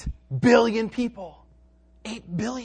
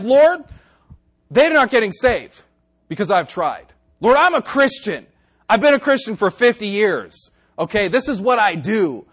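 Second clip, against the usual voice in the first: louder, insistent mock protest; protesting to God; 6 dB louder than usual. Christian complaining to the Lord, mock protest. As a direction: plead your case loudly. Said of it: "come to the conclusion like".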